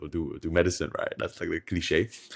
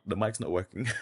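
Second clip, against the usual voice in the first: laughing; 3 semitones higher, 4 dB quieter than usual. Real, not acted. Laughing at tech failure.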